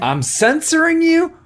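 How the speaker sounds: can't believe the accusation; mock-offended I'm censoring you; incredulous. Real, not acted.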